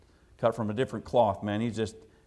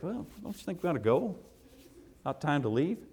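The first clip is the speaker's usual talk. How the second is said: soft, higher, tentative suggestion; nervous; 4 semitones higher, 5 dB quieter than usual. Retold or imitated. Visitor suggesting to friend they leave, nervous. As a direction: imitate someone nervously wanting out. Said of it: "I started getting nervous".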